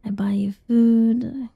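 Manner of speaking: normal talking voice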